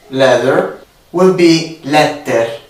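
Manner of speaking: "leather" with a hard t, sounding like "letter". Shown as a demonstration. Italian speaker showing how leather becomes letter. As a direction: drop the th in "leather" so it comes out "letter". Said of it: "So words like".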